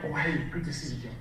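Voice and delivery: subdued, easy hello; matching a quiet client. Acted. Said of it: "So if they're quiet, you go in".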